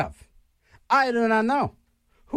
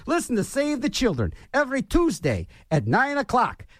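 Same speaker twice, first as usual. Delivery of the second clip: radio promo voice. Shown as a demonstration. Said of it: "I got my promo and my P S A done".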